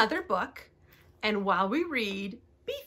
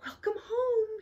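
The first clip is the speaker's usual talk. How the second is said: tearful whisper; 10 semitones higher, 4 dB quieter than usual. A narrator's reading. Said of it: "he whispered".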